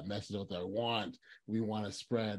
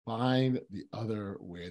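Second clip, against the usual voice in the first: slow, deliberate "Find the other way"; savoring the phrase; 3 dB louder, slower than usual. Real, not acted. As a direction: let "Find the other way" land slowly, word by word. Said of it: "Those are great words".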